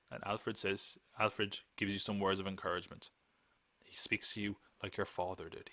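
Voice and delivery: soft mock director's coaching; psyching up actor. Podcaster as director describing words of encouragement, hushed coaching. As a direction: set the scene in a hushed voice. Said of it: "trying to psych up Michael Caine to deliver this line".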